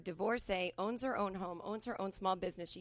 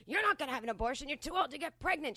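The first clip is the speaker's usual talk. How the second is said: fast, raised, scornful rant; imitated angry screaming; 4 semitones higher, 3 dB louder than usual. Friend's husband dismissing sister's abortion concern, ranting. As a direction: rattle it off like a man haranguing her. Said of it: "so he's screaming at her".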